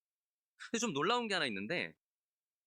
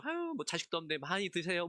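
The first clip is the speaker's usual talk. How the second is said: mock sarcastic jab. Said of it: "뭐 이런 얘기 했겠죠".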